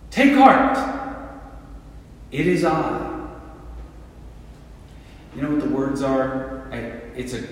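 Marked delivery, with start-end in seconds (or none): 0.1-3.1 much higher and louder on Take heart; calling out. Acted. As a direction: call across the storm to the frightened men. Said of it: "And Jesus calls out".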